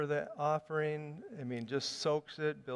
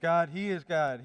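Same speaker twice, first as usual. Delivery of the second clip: retold shout; 2 semitones higher, 5 dB louder than usual. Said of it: "fall on their faces and shout".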